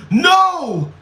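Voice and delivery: loud high protesting yell; a real amused outcry; laughing shout. Real, not acted. Laughing outburst at a chat comment.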